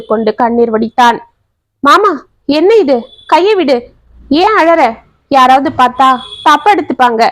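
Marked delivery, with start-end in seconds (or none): 1.8-7.2 put-on flustered young woman. Gayathri pulls hand away, flustered.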